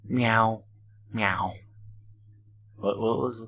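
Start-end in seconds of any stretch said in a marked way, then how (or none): 0.0-1.5 lightly voiced cat mew. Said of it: "she mewed".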